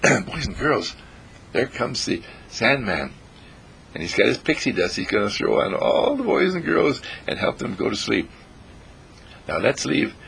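bedtime story voice. A narrator's reading. Bedtime story narration to children.

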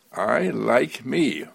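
slow, deliberate, enthusiastic; with enthusiasm. Shown as a demonstration. How he truly says it, slow and enthusiastic. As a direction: savour each word with power and joy. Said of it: "I say it with enthusiasm".

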